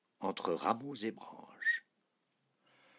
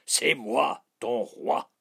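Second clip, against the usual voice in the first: king loudly ordering his dog about; shouted commands; 7 semitones higher, 8 dB louder, slower than usual. A narrator's reading. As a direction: call out each order forcefully. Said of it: "cria le roi".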